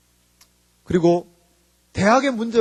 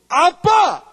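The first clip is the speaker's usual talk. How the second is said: high, loud mock call; child calling out; 9 semitones higher, 6 dB louder, much slower than usual. Child calling dad for help, high acted shout.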